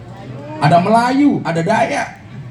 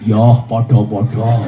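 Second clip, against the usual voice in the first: curt husband reply; 9 semitones lower, 3 dB louder, slower than usual. Retold or imitated. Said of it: "Cowok jawabannya apa? Singkat".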